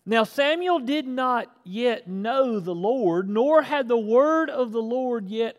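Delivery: high, loud, driving sermon delivery; full-force preaching. Acted. Preacher thunders Samuel's story to his church, full force. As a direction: preach the scripture like a revival.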